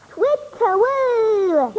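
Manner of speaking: hooting like an owl; slow drawn-out owl call. Acted. Child imitates the owl.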